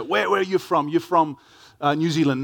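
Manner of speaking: humorous questioner. Retold or imitated. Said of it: "more sort of humorously, people say".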